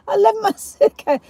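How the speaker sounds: high, through laughter; helpless amused repeat; laughing disbelief. Real, not acted. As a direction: squeeze it out after laughing. Still laughing at forgotten suitcase.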